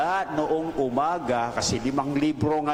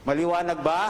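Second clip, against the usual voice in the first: asked again through a quick laugh, lighter and faster; laughing question; 4 semitones higher, much faster than usual. Real, not acted. Preacher teasing a drowsy congregation, laughing lightly. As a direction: chuckle while asking it again. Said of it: "Iba sa inyo, inaantok na eh".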